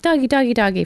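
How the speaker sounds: put-on high, eager kid voice calling the dog; squeaky little boy calling doggy. Little boy calling the dog from the bakery, high and eager. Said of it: "and he's like".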